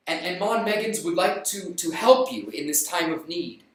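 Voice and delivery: lightly voiced solemn visitor; solemn stranger. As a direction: stranger bringing bad news. Stranger offers condolence.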